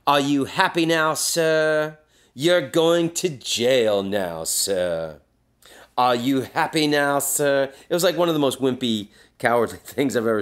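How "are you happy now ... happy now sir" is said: mock-sweet gloating taunt, a bit higher. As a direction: rub it in to the knocked-out drunk. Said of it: "he's taunting him".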